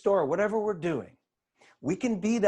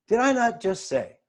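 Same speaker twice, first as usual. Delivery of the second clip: toned-down, measured reminder, falling at the end; milder reproach; 3 semitones higher than usual. Acted. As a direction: remind them pointedly without the exaggeration. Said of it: "Probably didn't say it like that".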